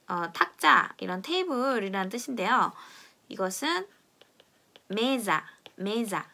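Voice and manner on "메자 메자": "메자" with a z-like sound; "메자" halfway between s and z; Portuguese mesa. Shown as a demonstration. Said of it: "이렇게 발음합니다".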